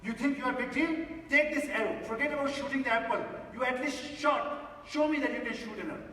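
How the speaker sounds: a touch of the offended archer; mild angry retort. Retold or imitated. Archer challenges the oil seller, mildly angry and quick. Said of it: "Now he gets totally angry".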